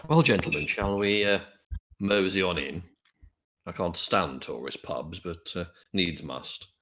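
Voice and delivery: low, slow disdainful gentleman; a weary aristocrat forced into a tourist pub; in-character gent. Acted. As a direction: player character grumbling about tourist pubs. Player speaks in character.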